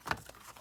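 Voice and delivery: heavy breathless sigh out; winded sigh. Real, not acted. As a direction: let out a tired, winded sigh. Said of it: "I am winded".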